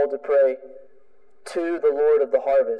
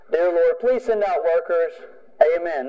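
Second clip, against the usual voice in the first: perfunctory prayer. Shown as a demonstration. Preacher showing the congregation the wrong way to pray, perfunctory. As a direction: recite it as a stock prayer, no begging in it. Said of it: "he's not talking about that kind of praying".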